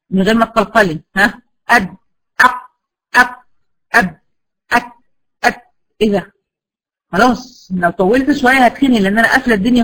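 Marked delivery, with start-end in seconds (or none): 1.7-5.6 clipped stops with no release; closed stop demos. Shown as a demonstration. Teacher drilling blocked letters for student. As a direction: chop each syllable off short. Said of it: "تعالي كده قولي أ".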